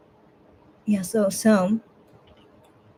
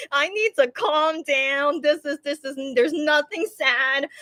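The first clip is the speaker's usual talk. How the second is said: higher, slow, whiny self-talk; mock tearful self-pleading; 5 semitones higher than usual. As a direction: plead with yourself through pretend tears. Retold pleading with self while crying.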